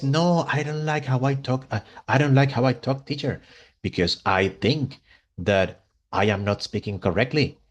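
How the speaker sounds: lightly imitated Spanish-accented English; English with a hint of Spanish lilt; imitating Spanish student. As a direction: mimic a student's Spanish intonation. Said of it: "let me see if I can imitate her".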